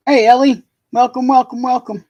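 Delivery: loud, high, bright hello to a newcomer; excited greeting. Real, not acted. Streamer greeting Ellie arriving in chat, loud excited welcome.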